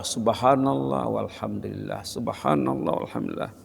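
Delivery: hushed murmur of praise; soft dhikr. Acted. Preacher softly glorifying God, hushed.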